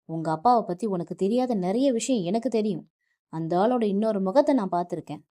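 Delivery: husband yelling at his wife about her father; furious shouting. Acted. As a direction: explode at her and rush the words. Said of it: "ஆக்ரோஷமாக அவளை பார்த்து கத்தினான்".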